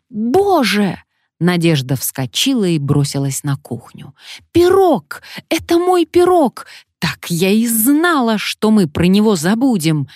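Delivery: high, loud panic; alarmed cry. A narrator's reading. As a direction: shout in dismay at the burning pie. Pie burning in the oven.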